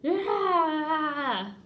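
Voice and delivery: loud, high triumphant yell; battle cry. Pretend. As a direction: shout it like an action hero. Kid's battle cry in daydream.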